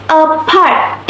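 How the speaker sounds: "apart" split into two words, a ... part; separated juncture. Shown as a demonstration. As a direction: put a small break inside "apart". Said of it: "It involves the pauses".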